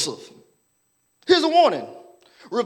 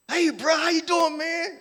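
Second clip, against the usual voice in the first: fake friendly; 6 semitones higher than usual. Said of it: "Just as fake as you wanna be".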